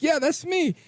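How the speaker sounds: mock smug reply.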